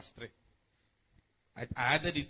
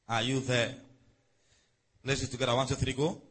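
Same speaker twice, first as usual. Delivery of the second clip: "Are you there?" called out louder to the room; louder call to the crowd; 2 semitones lower, 5 dB louder than usual. Real, not acted. Preacher calling the congregation to find the verse, louder. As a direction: push the voice out to the back rows.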